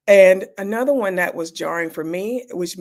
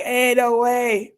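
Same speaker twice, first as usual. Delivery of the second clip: disbelief; 5 semitones higher, 4 dB louder, much slower than usual. Retold or imitated. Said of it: "And I was like".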